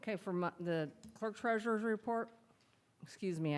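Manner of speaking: talking around a candy in the mouth; words slurred by a lifesaver; mouth full. Real, not acted. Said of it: "I got a lifesaver in my mouth".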